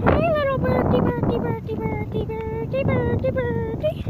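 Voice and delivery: high sing-song call to a little bird. Real, not acted. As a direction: coax the bird over, high and lilting. Calling out to a bird.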